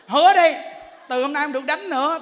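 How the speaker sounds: loud, high command, easing slightly; demanding a promise. Acted. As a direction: press firmly for the promise. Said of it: "Bắt đầu mình kêu nó hứa".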